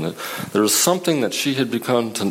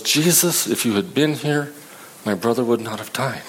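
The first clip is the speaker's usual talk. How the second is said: reproachful complaint. Retold or imitated. Martha to Jesus over her dead brother, reproachful. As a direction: push the blame onto him.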